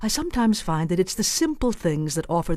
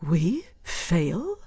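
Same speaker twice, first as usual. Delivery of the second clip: shocked. Shown as a demonstration.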